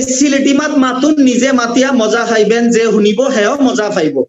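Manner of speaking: a Sylheti speaker's phrase, slowing to finish; Sylheti dialect. Shown as a demonstration. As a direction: Sylheti accent demo, relaxed. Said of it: "এরা বলে যে".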